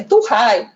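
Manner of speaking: "turrai" with an R sound replacing the V. Shown as a demonstration. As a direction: say "turrai" as tu-RRAI. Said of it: "é turrai".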